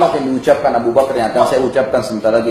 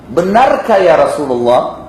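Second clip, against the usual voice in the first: slow, somewhat raised questioning call; deliberately raised voice; 3 dB louder, much slower than usual. Retold or imitated. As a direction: ask it slowly for everyone to hear. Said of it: "sengaja kerasin suara". (bertanya lambat dengan suara agak dikeraskan)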